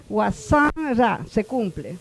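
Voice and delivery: Wasanra said slowly, stressing the second syllable; slow stress demo. Shown as a demonstration. Teacher confirming Wasanra follows the rule, slow. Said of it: "Debe de jalar el acento de pronunciación".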